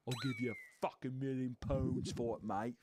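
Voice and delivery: lightly hammed-up Irish-buyer accent; rough stab at an Irish accent; mock accent. Host imagines the buyer bidding on the potato, mock Irish accent. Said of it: "Actually, what would an Irish accent be?".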